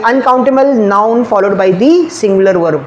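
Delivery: very slow, every word separate; slow rule dictation. Shown as a demonstration. Teacher dictates the grammar rule to students, very slowly. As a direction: lay the rule down slowly for note-taking. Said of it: "पहले तो दिमाग में होना चाहिए".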